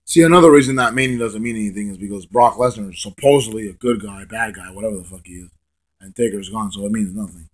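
hoarse, strained voice; lost voice. Real, not acted. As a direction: speak with a worn-out voice. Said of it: "I lost my voice".

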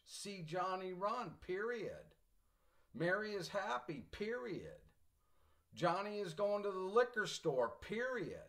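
a teacher spelling out simple sentences with "period" after each; dictating simple sentences. Shown as a demonstration. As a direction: read it like dictation to beginners. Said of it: "Simple sentences".

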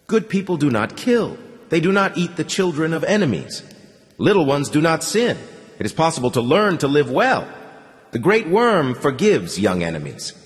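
high, earnest simple speech; savage voice. A narrator's reading. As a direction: preach it like a simple believer.

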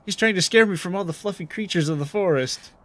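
quick, lightly voiced Southern belle; teasing impression of a pretentious Southern teen; mock Southern belle. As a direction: imitate a complaining Southern belle at a fast clip. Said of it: "like, Southern Belle, who's like".

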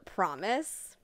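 soft, low murmur, lightly imitating a whisper; whisper in ear. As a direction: read it softly, as if into an ear. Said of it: "whispers in his ear and says".

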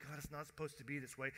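quick, understated protest; brisk, mild lament; recalled complaint to God. Acted. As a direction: toss the complaint off fast. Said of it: "where you're going".

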